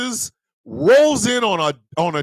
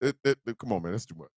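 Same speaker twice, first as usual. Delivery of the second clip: crow pleading; 10 semitones lower, 11 dB quieter, faster than usual. Acted. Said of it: "a crow outside going".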